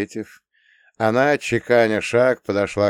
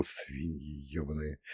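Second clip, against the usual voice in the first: muttered curse; 5 semitones lower, 15 dB quieter than usual. Real, not acted.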